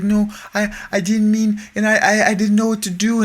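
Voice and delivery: put-on high-pitched, stammering child voice; imitated nervous kid. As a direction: mimic a scared kid making excuses, way up high. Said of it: "like, nervous and he's mumbling".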